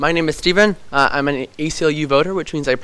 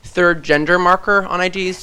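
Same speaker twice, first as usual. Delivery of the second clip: slower, a bit higher, spelled out; slow and clear; 4 semitones higher, slower than usual. Real, not acted. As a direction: repeat it slowly so she hears. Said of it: "A, a".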